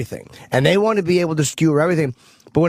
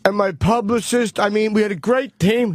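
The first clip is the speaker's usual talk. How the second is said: higher-pitched actor thanking the team; mock acceptance speech; 6 semitones higher than usual. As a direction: imitate an earnest award winner, voice pitched up. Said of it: "Do you wanna hear their speeches?".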